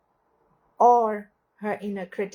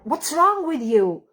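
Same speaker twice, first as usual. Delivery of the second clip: scolding phrase; 4 semitones higher, 4 dB louder than usual. Retold or imitated. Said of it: "For example".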